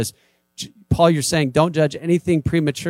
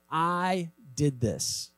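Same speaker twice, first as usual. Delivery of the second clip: mock boast; 2 semitones higher, 6 dB quieter, much slower than usual. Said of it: "that you can say".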